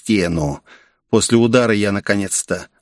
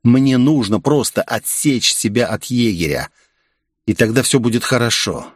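plain reading voice

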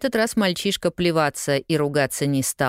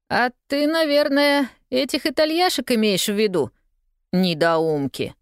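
lightly voiced boy; 8 semitones higher than usual. A narrator's reading. Newsboy voice.

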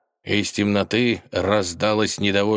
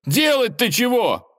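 slow, much higher, louder wail; 3 dB louder than usual. Acted. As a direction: howl it out in panic. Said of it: "завопил Иван".

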